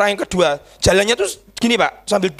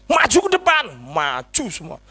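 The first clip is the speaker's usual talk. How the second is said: calling people forward. Retold or imitated. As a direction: call the crowd up in a raised pitch. Re-enacts calling people to the front.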